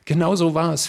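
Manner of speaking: high, merry exclamation; drunk with laughter. A narrator's reading. Isabella applauds the actor's parody, giddy from laughing. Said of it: "fügte vom Lachen ganz trunken Isabella noch an".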